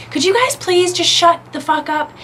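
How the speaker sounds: high-pitched mock yell without full volume; held-back mock scream. Irritated salon customer to two chatting women, mock screaming. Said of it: "And, like, screams it".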